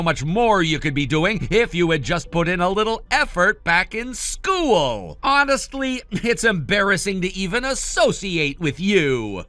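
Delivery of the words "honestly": scornful. Acted. Brother scorns sister.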